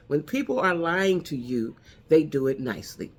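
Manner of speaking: said slowly, each word weighed; slow it down so it lands; deliberate slowed-down restatement. Shown as a demonstration. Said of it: "I'm gonna say that one more time".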